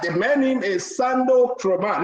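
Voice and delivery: Sando Kroman spelled out slowly, each part weighed; name stressed slowly. Shown as a demonstration. Host correcting viewers, slowly stressing the man's name. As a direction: set the record straight on the name Sando Kroman. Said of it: "His name is not Sando Daniel".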